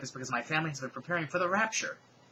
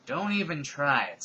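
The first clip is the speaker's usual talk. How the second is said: slow threat; 2 semitones higher, 6 dB louder, slower than usual. Acted. Villain threatening with gun.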